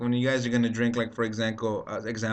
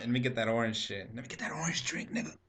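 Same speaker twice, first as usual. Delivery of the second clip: Chappelle impression; 8 dB quieter than usual.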